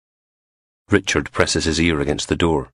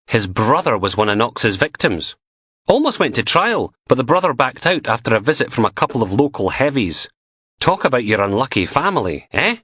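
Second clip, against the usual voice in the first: put-on higher, eager young constable voice; chatty young constable; 6 semitones higher than usual. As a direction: gossip the news eagerly.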